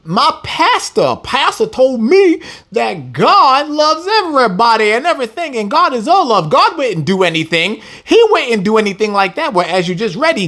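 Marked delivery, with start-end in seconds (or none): 0.1-9.1 mocking churchgoer. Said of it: "some people could be like".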